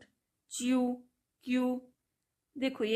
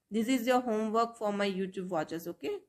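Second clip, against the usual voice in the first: slow teacher address; much slower than usual. Shown as a demonstration. Addresses viewers slowly.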